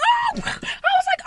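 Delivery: high-pitched yelp of shock; reenacted jump-scare shriek; startled cry. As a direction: cry out as if someone jumped at you. Reenacts being startled by witch.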